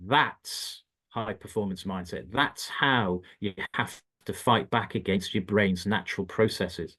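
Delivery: slow, deliberate retold coach's lesson; driving it home. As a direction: spell the lesson out slowly, word by word.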